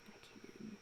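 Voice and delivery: breathless hushed narration; whisper. Shown as a demonstration. Sneaking into the camera from the side, whispered. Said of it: "I came into the camera like this".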